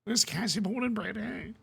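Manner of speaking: badly faked Scouse accent, high and soft; an American's clumsy try at a Liverpool accent; mock Scouse accent. Copying the Scouse co-host's accent, badly. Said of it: "I don't actually know what the accent is".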